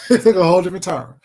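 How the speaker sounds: repeats it through a real laugh; chuckling as it sinks in. Real, not acted.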